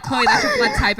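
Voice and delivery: squeaky high mock voice. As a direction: pitch way up to mock them. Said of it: "And they were like".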